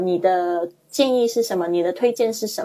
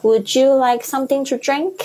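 waiter; 6 semitones higher than usual. Acted. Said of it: "这一则对话".

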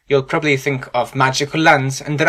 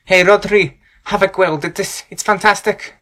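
Welsh accent; 4 semitones higher, 3 dB louder than usual. Shown as a demonstration. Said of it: "For example".

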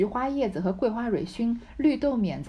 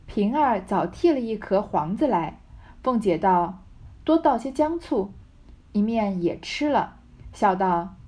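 抑扬起伏地朗读古典小说; 带一点角色对白感地念故事; 小说朗读. A narrator's reading. Reads the novel with dialogue. (生动的小说朗读腔)

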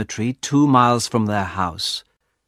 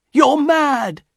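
high-pitched, outraged exclamation; horrified cry; 3 dB louder than usual. A narrator's reading. Husband tells wife she is mad, crying out. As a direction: exclaim it in disbelief. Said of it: "Mister White cried".

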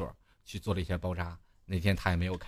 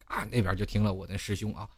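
ordinary delivery

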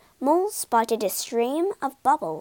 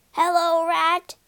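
calling back; 6 semitones higher, 4 dB louder than usual. A narrator's reading. Animals greet across the river.

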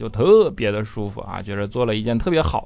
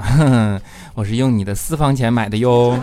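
playfully smug wife, louder opening chuckle; teasing wife; 3 dB louder than usual. Acted. Wife tells husband she used his secret money, teasing. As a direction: let the secret slip with sly relish.

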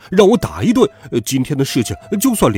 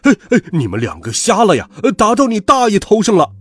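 loud bellow climbing much higher; outraged boss yelling; angry roar; 7 semitones higher, 5 dB louder than usual. A narrator's reading. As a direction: roar at clumsy underlings. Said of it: "大吼道".

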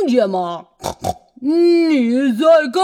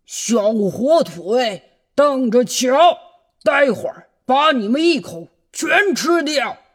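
grumbling threat. Acted. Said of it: "老狼大发牢骚".

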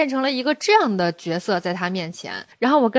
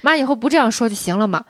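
mother's placating tone. Retold or imitated. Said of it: "你看他的语气".

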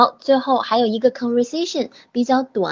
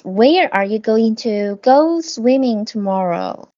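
slow, clear, word by word; slow model reading; 3 dB louder, slower than usual. Shown as a demonstration. Teacher models the English answer slowly for the class. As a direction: spell each word out for the students. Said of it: "加个动词，加go".

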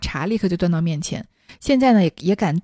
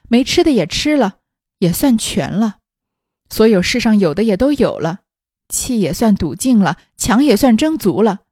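cold laugh; 4 dB louder than usual. Acted. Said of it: "凤姐冷笑道".

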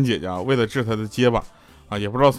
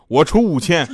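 laughing punchline; 5 semitones higher, 6 dB louder than usual. Retold or imitated. Silent parent's punchline.

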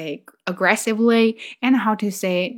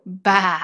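drawn-out "ba" bleat; imitated sheep bleat. Two-year-old daughter correcting her Chinese uncle, imitated bleat. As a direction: bleat "ba" as a word. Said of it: "it's not meh".

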